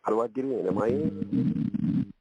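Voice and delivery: choppy phone line; radio breaking up. Real, not acted. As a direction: voice cutting in and out. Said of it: "Sound like you're breaking up".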